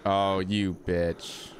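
bracing for a jump scare; scared horror game streamer. Real, not acted. Scared in the dark corridor.

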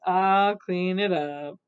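slow, low, tired delivery; weary. Acted. Little Witch after the spilled soup, wearily. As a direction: drag it out, worn out. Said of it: "said Little Witch wearily".

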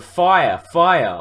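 loud alarmed cry; a crowd shouting a warning; screams of fire. Acted. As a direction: yell it across the battlefield. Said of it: "Everywhere there were screams of".

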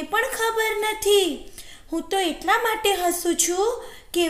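high-pitched jackal character voice; cheerfully defiant jackal. Acted. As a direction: keep it high and unafraid, amused at the captor. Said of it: "હસતા ચહેરે કહ્યું".

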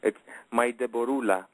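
lightly voiced Greek accent on Deborula; heavy Greek accent. Singer recalls his pet name for his duet partner in mild Greek accent. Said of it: "with a heavy Greek accent".

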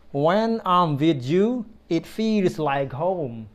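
slow, tender model phrase. Shown as a demonstration. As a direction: draw it out gently. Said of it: "the next one is".

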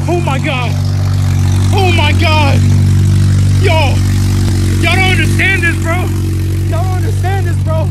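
real joy, voice lifting as the car runs; overjoyed. Real, not acted. Car finally running after five days, real overjoyed voice. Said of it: "I'm about to cry right now".

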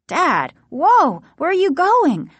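startled high call. A narrator's reading. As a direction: call out in alarm to stop him. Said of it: "Margaret called".

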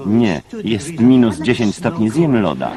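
sarcastic retort with a laugh; mock the offer, laughing a little. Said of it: "wirus sarkazmu". (sarkastycznie, ze śmiechem)

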